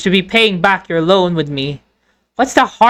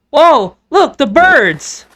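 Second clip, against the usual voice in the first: startled, slow call; alarmed; 4 semitones higher, much slower than usual. Acted. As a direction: point and gasp in alarm. Sudden alarm.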